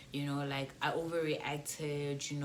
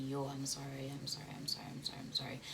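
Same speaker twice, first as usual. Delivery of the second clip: comforting; 2 semitones lower, 6 dB quieter, faster than usual. Retold or imitated. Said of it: "he was trying to comfort me".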